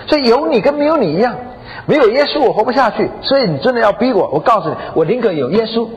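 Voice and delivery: retold exasperated outburst, pitch climbing; mildly heated, high-pitched complaint; angry wife. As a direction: have it out with your husband. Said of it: "这个太太啊也生气了".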